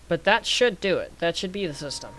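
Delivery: "should" leaned on to hedge the claim; stress on SHOULD. Real, not acted. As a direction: put the emphasis on "should". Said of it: "Emphasis on the word should".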